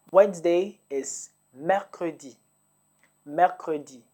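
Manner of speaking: slow and clear, mercredi spelled out syllable by syllable; slow teaching delivery. Shown as a demonstration. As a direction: spell out mercredi slowly for learners. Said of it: "teacher models word".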